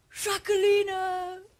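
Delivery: high, loud, mocking, teasing voice.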